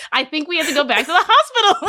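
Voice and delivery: high-pitched mock panic; acted alarm. Acted alarm to her mother.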